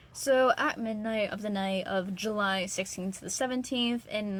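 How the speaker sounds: a light touch of a formal news read; news reporter voice. Acted. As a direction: read it like a TV journalist. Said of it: "You sound like a re-, news reporter right now".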